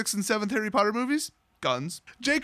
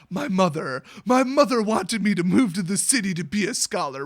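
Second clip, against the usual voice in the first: mock melodrama; 4 dB louder than usual. Jace on the psychiatrist's couch, mock melodramatic. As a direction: overblown confession. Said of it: "it's not already too melodramatic".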